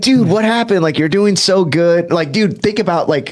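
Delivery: half-pleading, half-scolding father; exasperated dad. Retold or imitated.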